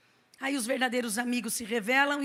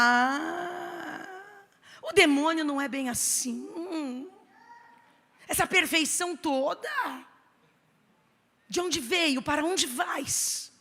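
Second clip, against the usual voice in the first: mock dramatic; 3 semitones higher, slower than usual. Pastor mocks perfection.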